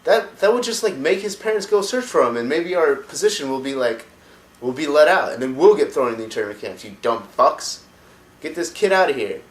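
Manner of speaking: high, loud scolding warlord rant; Hellscream yelling. Retold or imitated. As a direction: tear into them as the furious chieftain. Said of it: "And Grom Hellscream's like".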